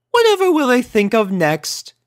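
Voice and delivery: high, refined lady voice; a prim unicorn lady; Rarity voice. A narrator's reading. Elder unicorn speaking to Rainbow, high and refined.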